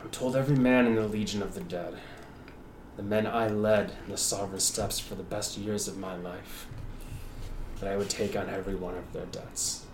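words through gritted teeth. Acted. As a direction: force it out through clenched teeth. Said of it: "speaks through gritted teeth".

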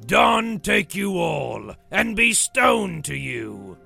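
slow, high, loud proclamation; troll-voiced curse, loud and slow; booming curse like William. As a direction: pronounce the doom in a drawn-out shout. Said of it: "a voice that sounded like William's".

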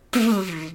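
soft, low attempted trill; half-managed brrr, trying again; failed rolled R. Shown as a demonstration. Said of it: "I don't think I can".

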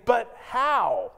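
But how with a flat, disbelieving sag; doubtful but how. Acted. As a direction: push back, not curious. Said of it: "So when Zechariah is saying".

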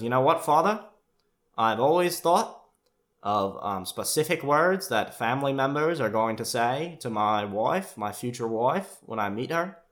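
solemn declaration in a lifted voice; Michael's earnest voice. Retold or imitated.

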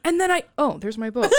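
high mock whine melting into a laugh; whiny Jake. Jake discovering his boat, high whine into laughter. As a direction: end the rant laughing. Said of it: "he's like".

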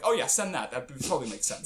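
dry mock approval; sarcastic. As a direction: say it like you mean the opposite. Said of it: "being sarcastic".

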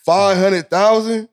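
high, slow goofy white guy; drawn out like a cheesy white dude. Pretend.

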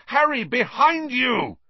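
high, loud desperate cry across the pitch; anguished yell. A narrator's reading. Wood warning Harry from the goalposts, anguished yell. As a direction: yell his name in anguish. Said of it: "came Wood's anguished yell".

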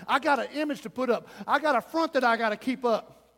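quick, insistent proud protest; acted proud refusal. Pride refusing the altar before deliverance, proud protest. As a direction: voice pride digging in its heels. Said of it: "Pride can rise up and say".

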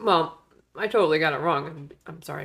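talking through a cookie; words around a mouthful; mouth full. Real, not acted. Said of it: "I'm eating a cookie".

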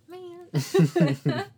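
high, loud mock-sulky outburst; mad. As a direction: imitate a pouting kid kicking the dirt. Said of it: "she's just so mad".

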